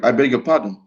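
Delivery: ordinary talk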